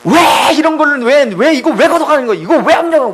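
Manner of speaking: whining mock complaint to heaven; acted irritation. Jonah complaining to God about the lost shade, irritated. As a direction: protest with repeated, exasperated whys. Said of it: "막 짜증을 내기 시작한".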